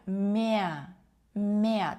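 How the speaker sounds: ме drawn out into a glide "meh-a"; German mehr with silent R; vocalized R. Shown as a demonstration. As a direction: stretch ме, gliding to a vowel with no R. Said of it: "Це може бути наближено до Е".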